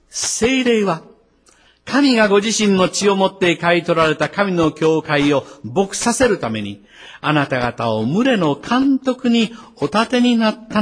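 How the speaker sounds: emphatic Bible reading with lifted pitch; scripture proclamation. Real, not acted. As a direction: proclaim the verse to the congregation. Reads out the Bible verse.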